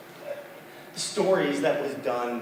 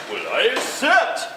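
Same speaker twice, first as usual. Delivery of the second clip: spider voice; 12 semitones higher, 7 dB louder than usual. Acted. Spider accepts.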